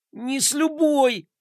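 firm refusal. Acted. Gloria refuses firmly.

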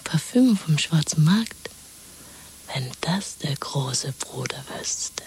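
slow, hushed whisper. Acted. Woman warning her lover of Big Brother: slow whisper. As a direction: breathe it slowly, barely audible.

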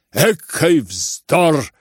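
slow, loud indignant cut; indignant snap. Acted. Varya to everyone, indignant snap. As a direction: cut it off with disdain. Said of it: "отрезала в негодовании Варя".

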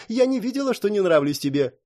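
plain reading voice

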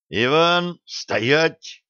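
high, sharp halt order; barked command. A narrator's reading. Commissar halts the senior lieutenant, barking. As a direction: stop him in his tracks with your voice. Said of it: "рявкнул комиссар".

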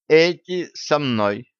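high, slow, offhand announcement; breezy, self-assured aside to a guard; casual toss. A narrator's reading. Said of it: "небрежно кинула она охраннику".

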